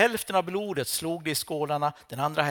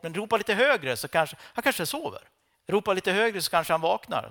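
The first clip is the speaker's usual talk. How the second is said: mocking taunt; 4 semitones higher than usual. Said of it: "han retas lite med dem".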